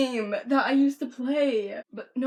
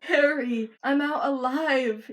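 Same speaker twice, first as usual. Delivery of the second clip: raised, slightly louder mock cry; drawn-out, half-hearted scream; 4 semitones higher, 5 dB louder, much slower than usual. Patient out of a teeth transplant calling to Harry, mild mock scream. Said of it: "you scream".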